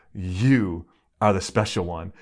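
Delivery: lightly imitated Greek father; thick Greek accent. Father assures his daughter she is special, Greek accent. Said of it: "in his thick Greek accent".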